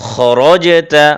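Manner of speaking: 'খরজেতা' slow, rounded 'kho-ro'; heavy kh, r. Shown as a demonstration. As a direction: recite 'খরজেতা' with thick 'kho' and 'ro'. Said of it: "এভাবে হবে".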